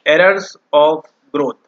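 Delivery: errors of growth drawn out very slowly, word by word; term spelled out slowly. Shown as a demonstration. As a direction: dictate the term slowly so students can note it. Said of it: "इसको हम बोलते हैं आपके". (बहुत धीरे, शब्द-दर-शब्द बोला गया शब्द)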